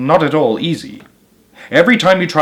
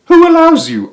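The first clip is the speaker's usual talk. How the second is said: indignant duck; 7 dB louder than usual. A narrator's reading. Duck challenges Mr Gregg.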